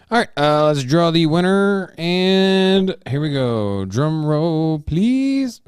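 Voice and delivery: loud, drawn-out hype for the draw; hyped announcer. Real, not acted. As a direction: build suspense like a game-show host.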